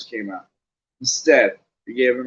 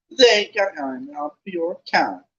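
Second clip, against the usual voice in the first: sharp; 5 semitones higher than usual. Acted. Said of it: "said Hermione sharply".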